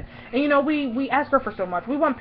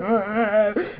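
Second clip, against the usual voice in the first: small mock sobs; half-hearted fake weeping; imitated sobbing; 2 semitones lower than usual. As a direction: act out depressed crying.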